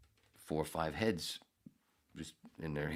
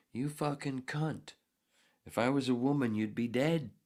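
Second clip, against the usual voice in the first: re-enacted angry outburst; 9 semitones higher, 3 dB louder than usual. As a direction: replay the outrage in a raised, high voice. Re-enacts own outburst mockingly.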